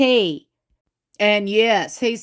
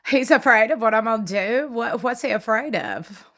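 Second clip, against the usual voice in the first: playing dumb. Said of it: "playing like she don't know".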